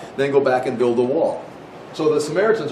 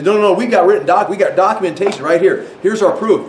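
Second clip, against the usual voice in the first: louder, higher, quick rush of objection; insistent protest; 4 semitones higher, 5 dB louder than usual. Acted. Jewish lawyers insisting to the officials, loud and eager. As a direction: wave the proof in their faces.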